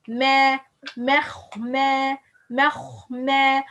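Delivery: "مخمة" with light meems around a heavy kha; light-heavy balance. Shown as a demonstration. Teacher drills the balance, light meem, heavy kha. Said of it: "balance between heavy and light".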